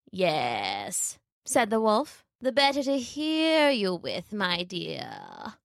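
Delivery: slow, creaky fake grandmother; a wolf feigning a sick old lady; wolf posing as granny. Wolf tricking Little Red, faking a sick granny.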